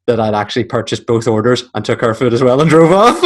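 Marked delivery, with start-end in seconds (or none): 2.4-3.2 laughing while talking. Real, not acted. Laughing through the punchline.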